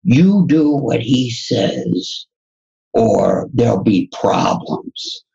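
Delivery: put-on slow, drawn-out order with a loose Russian accent; attempted Russian accent. Rand on the phone orders her to obey, rough Russian accent. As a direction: imitate a stern Russian accent, half-heartedly. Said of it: "in this Russian accent, I can't imitate it".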